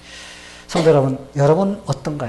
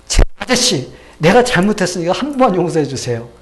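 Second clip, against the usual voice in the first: higher, louder begging; pleading for forgiveness; 5 semitones higher, 6 dB louder than usual. Retold or imitated. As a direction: plead humbly for mercy. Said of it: "사정사정을 해서".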